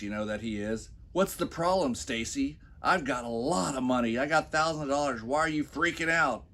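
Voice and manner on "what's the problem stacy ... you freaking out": lightly voiced Daddy Warbucks brag; smug rich guy. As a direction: play the show-off millionaire shrugging it off. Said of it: "Mister Daddy Warbucks".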